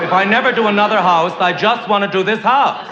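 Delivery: lightly voiced fawning decorator; a hint of a gushing interior decorator. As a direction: coo it like a flattering decorator. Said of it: "That's the way interior decorators talk".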